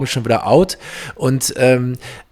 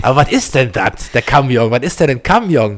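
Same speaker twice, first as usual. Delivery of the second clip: playful East Belgian "wat is dat" question; East Belgian dialect. Pretend. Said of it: "im ostbelgischen Dialekt sprechen". (spielerisch im ostbelgischen Dialekt gefragt)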